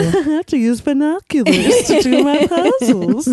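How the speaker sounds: lightly put-on towering-giant voice; laughing mock tall-person voice. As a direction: play up being comically tall, laughing. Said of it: "It's just tall voice".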